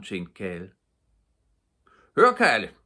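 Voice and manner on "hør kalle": loud, high call across the field; shouted. Acted. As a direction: call out to Kalle. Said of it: "råbte kommissæren".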